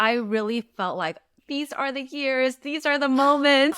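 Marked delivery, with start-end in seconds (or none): 1.5-3.8 slow, higher-pitched, gushing sentimentality. Retold or imitated. Mother recalling her first time volunteering at school, slow and sentimental. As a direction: savor it like a moved parent. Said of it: "sentimental me really came out".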